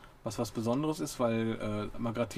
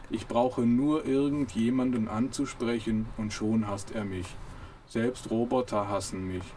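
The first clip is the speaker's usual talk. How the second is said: slow, mildly mournful monotone; a hint of a sulking robot complaining; slow understated robot self-pity; slower than usual. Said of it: "dumpfes Gebrumme".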